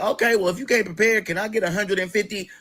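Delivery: wheedling for cash; mock sister voice. Sister asking to borrow money.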